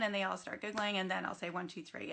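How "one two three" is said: hushed, gentle count; soft counting. Retold or imitated. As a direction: count softly so the room stays calm. Quiet count to calm kids.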